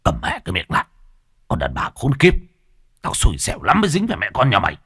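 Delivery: bitter swearing, rising in pitch; angry cursing. Acted. Husband curses wife after slapping her, angry cursing. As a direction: curse them out angrily. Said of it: "rồi chửi đồng".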